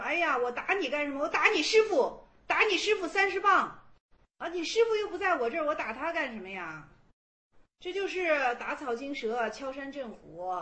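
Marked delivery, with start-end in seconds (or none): 0.0-6.9 a Chan master's mock scolding, louder on the threats. Chan master threatens the student's absent teacher, hammed-up scolding. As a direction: bark out the beating threat like a stern old master. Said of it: "禅宗里面经常说".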